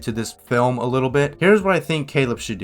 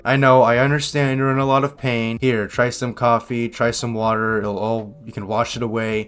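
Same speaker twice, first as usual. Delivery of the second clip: sincere comfort; 2 semitones lower than usual. Shown as a demonstration. Reactor shows the officer comforting the grieving man, gently and sincerely. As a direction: show how a kind officer would comfort him. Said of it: "they could have at least said".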